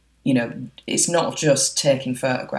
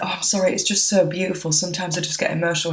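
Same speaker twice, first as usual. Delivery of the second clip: higher-pitched mock cheerful apology; put-on smile; 5 semitones higher, faster than usual. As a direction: retell covering up tears with a smile. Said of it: "had to just instantly put a smile on".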